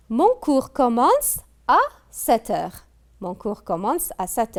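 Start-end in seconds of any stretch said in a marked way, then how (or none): 0.1-2.9 higher, louder read of the sentence; announcing the example. Shown as a demonstration. Teacher announcing exercise sentence to pupils, raised and louder. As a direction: present the sentence to the whole class.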